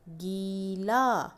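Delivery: गीला said very slowly, holding the long ई; drawn-out reading. Shown as a demonstration. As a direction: stretch गीला so the long vowel is heard. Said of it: "इसमें बड़ी की मात्रा है". (बड़ी ई खींचकर, धीरे-धीरे)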